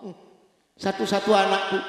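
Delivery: mildly acted weeping prayer; understated imitation of a crying mother; tearful plea. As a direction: plead with a touch of tears. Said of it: "Sambil nangis minta sama Allah".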